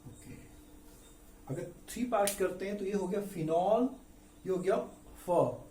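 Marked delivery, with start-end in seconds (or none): 2.8-5.6 फिनॉल broken into parts, slowly; syllable by syllable; split into syllables. Shown as a demonstration. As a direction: sound out फिनॉल piece by piece. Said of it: "इसको पढ़ेंगे कैसे".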